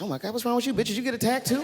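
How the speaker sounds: high, sing-song fake worry; mock concern. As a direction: play the caring husband, over the top. Mock-concerned quote to wife.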